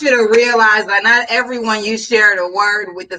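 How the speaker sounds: playful church sermon delivery; mock preacher. Pretend pastor teaching the church, mock preaching.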